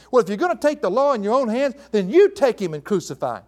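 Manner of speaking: high-starting sarcastic retort. Acted. Preacher paraphrases Pilate challenging the Jews, sarcastic. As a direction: hand it back to them with sarcasm. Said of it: "so he says sarcastically".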